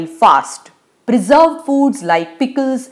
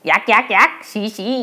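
cries out. A narrator's reading. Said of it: "cries Madhav".

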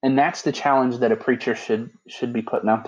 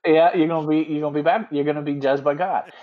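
mock preacher; 3 semitones higher than usual. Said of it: "That Baptist flair just came out".

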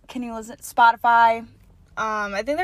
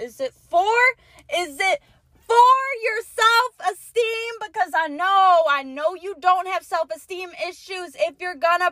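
exasperated rant; 4 semitones higher than usual. Real, not acted. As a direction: scold them in disbelief. Rant resumes.

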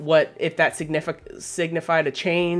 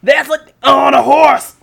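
excited joke; 9 semitones higher, 11 dB louder, slower than usual. Real, not acted. Laughing at Blade casting idea.

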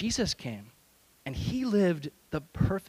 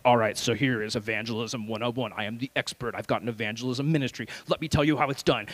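lightly voiced self-important instructor, pitched down; mock expert; 5 semitones lower than usual. Youth pastor parodies himself as the evangelism expert, mock expert. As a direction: play a know-it-all giving a class.

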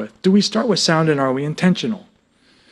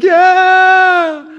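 exultant yeah; 7 dB louder than usual. Retold or imitated. Exultant cry after singing.

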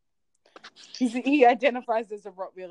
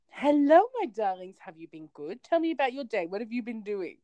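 loving greeting to the dogs; 3 semitones higher than usual. Retold or imitated. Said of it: "my tone is always loving and kind".

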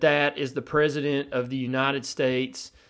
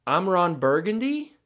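"Burgundy" lifted into a rising question tune; Ron Burgundy's question. Retold or imitated. A lightly voiced anchorman reading his own name as a question. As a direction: read the name as if unsure of it, rising at the end. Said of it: "read his name as a question".

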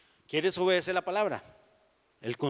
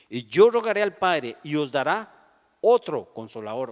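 loud proclamation; 6 dB louder than usual. Acted. Loud preaching quote.

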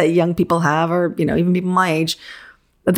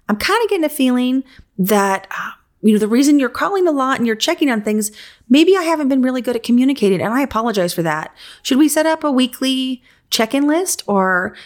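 higher, gentle and earnest; sincere apology; 5 semitones higher than usual. Shown as a demonstration. Designer gently apologizing to a micromanaging client, sincere and higher. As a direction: soften it, you're owning the problem. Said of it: "I usually sit them down or on a phone call and say".

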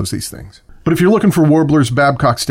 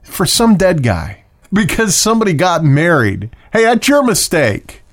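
heated rant; 6 semitones higher than usual. Real, not acted. Ranting to listeners about doves released at weddings and wakes, heated. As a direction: pitch jumps higher as the irritation builds. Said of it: "that makes me so angry".

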